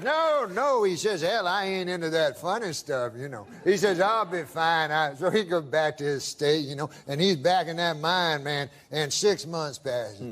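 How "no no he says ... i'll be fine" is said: drawling prospector voice. Retold or imitated. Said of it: "I can tell by the accent".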